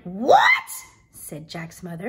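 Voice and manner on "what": very high, loud shriek of shock; outraged disbelief. Acted. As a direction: cut in aghast as the mother. Mother appalled at the beans.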